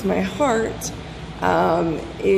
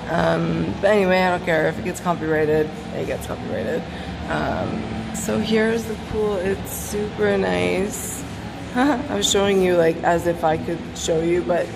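echoey pool acoustics; talking in a reverberant pool hall; at an indoor pool. Real, not acted. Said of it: "I'm in the pool right now".

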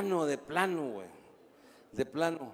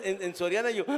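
normal talking voice

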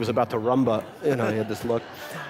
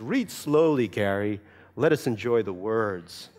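gentle teacher correction; 2 semitones lower, slower than usual. Retold or imitated. Teacher correcting child's reading pace.

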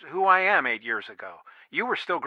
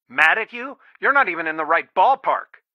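incredulous denial; 5 dB louder than usual. Acted. Father answering whether he is mad at daughter, incredulous. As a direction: protest at a wildly wrong guess.

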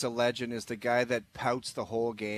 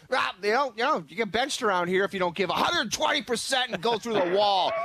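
mock coach lecture; 6 semitones higher than usual. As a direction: sneer at the coach's benching rule. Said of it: "was like".

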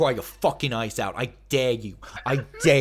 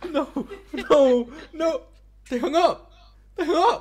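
high, laughing cry; laughing disbelief; 13 semitones higher, 5 dB louder than usual. Real, not acted. Streamer after fake HBO hung up, high laughing. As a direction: crack up in disbelief.

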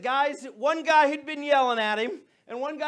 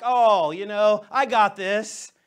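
prideful; 8 dB louder, slower than usual. Retold or imitated. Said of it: "all prideful like Jairus".

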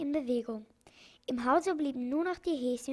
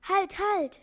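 high, loud repeated yell; shouting; 7 semitones higher, 7 dB louder than usual. A narrator's reading. Doctor shouting to the crew to wait, loud yell. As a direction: yell it to halt everyone. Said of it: "schrie der Doktor".

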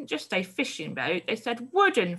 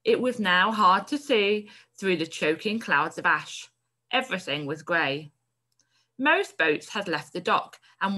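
expressive read-aloud of a story; teacher reading a story to the class. A narrator's reading. Teacher reads story passage aloud.

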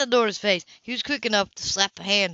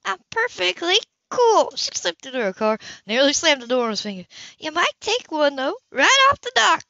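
Anna, scornful; 6 semitones higher than usual. A narrator's reading. Anna tells Cam to take a walk off the dock, scornful. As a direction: sneer it.

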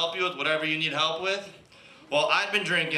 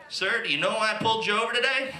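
police officer voice; 5 semitones higher than usual. Retold or imitated. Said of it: "and he said".

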